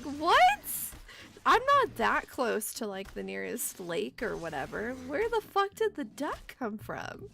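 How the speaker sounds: loud, high, baffled questions; can't believe there's a duck; loud disbelief. Retold or imitated. Finding a duck in the yard, loud high disbelief. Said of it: "So I'm like".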